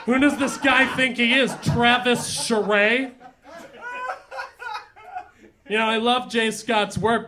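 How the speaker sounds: put-on hammy old-school lounge comic voice; old borscht belt comic. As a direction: work the room like a cheesy nightclub comic. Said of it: "acerbic comedian".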